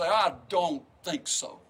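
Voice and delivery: slow, firm refusal; measured, unshakable no; calm defiance. Retold or imitated. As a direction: plant your feet and refuse the lie. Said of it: "something of the Spirit ... and say".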